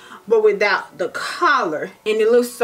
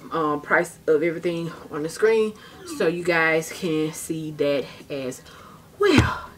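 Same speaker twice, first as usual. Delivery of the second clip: out of breath; 4 semitones lower, 4 dB quieter than usual. Real, not acted. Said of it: "Y'all hear how my breath is giving out?".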